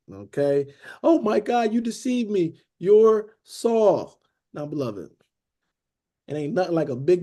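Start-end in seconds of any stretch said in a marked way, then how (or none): 1.0-4.2 higher-pitched mock outcry; mock crying out. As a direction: act out her shocked cry, half-hearted. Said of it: "crying out with a loud voice".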